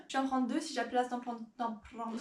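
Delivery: quick playful mock Spanish accent. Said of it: "je parle avec l'accent espagnol maintenant".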